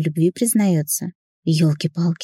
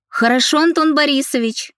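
calling out; 9 semitones higher than usual. A narrator's reading. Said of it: "крикнула я в ответ". (громкий отклик из кабинета)

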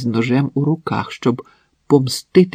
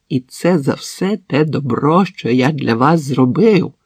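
reproachful. Acted. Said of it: "із докором кинув Максим".

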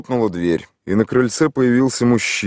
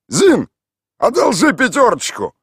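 high, loud call across the street; 6 dB louder than usual. A narrator's reading. Mikhail Ivanovich shouts to the woman at the fence. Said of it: "выкрикнул".

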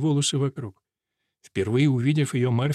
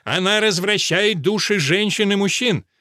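ringing sermon voice, raised high; booming preacher voice; 6 semitones higher than usual. Acted. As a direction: proclaim it like a preacher. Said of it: "зычным голосом проповедника".

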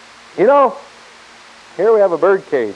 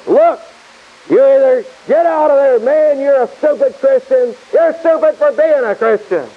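harsh taunting; 4 semitones higher than usual. Acted. Satan voiced pressuring Christians.

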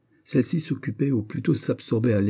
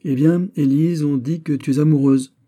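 crying out; 7 semitones higher, 6 dB louder than usual. A narrator's reading. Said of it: "Marguerite s'écria".

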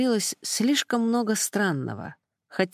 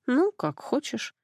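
slow, higher-pitched mild grumble; grumbled; 6 semitones higher, slower than usual. A narrator's reading. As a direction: drag it out as a mildly grudging concession. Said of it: "буркнула подруга".

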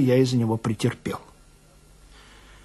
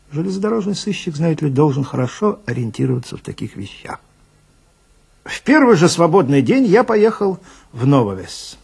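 usual speaking voice

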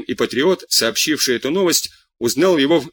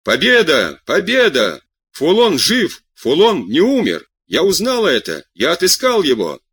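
out-of-breath shout; 3 semitones higher than usual. Retold or imitated. Man bursting into the club yells that Foulon lives, breathless shouting. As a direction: retell a panting man yelling the big news. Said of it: "кричит, запыхавшись".

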